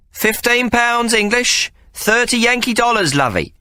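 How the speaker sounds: drawn out, proud reply; Sally's voice. Acted. Sally answers the wager.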